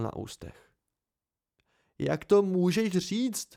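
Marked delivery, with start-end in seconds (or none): 2.0-3.5 high, drawn-out horrified question; horrified outburst. Acted. Simon to his friend who says he's fine, horrified. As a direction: blurt it out aghast, pitch climbing. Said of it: "vyhrkl s hrůzou".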